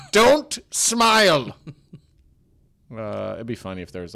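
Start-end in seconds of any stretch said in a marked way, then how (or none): 0.1-1.6 higher, slow drawn-out command; slow mock painter. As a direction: stretch it out like a fussy painter.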